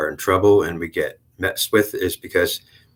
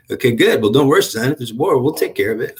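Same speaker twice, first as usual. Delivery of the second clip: lightly voiced, higher reassuring uncle; a hint of a protective uncle calming his nephew; Uncle Bob; 6 semitones higher than usual. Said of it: "He comes around and says".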